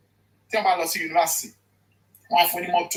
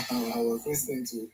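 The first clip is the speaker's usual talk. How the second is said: laughing; 6 semitones lower, 3 dB quieter than usual. Real, not acted.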